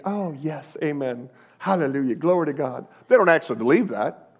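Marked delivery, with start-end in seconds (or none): 0.1-2.9 hollow amen. Retold or imitated. Mocking hollow church agreement.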